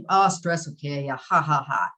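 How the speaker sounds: joking quote capped by a put-on laugh; mock laughing dismissal. Speaker imitates people laughing off stress, mock dismissive. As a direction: brush it off with fake ha-has. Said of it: "we all laugh. I'm, I, I've laughed".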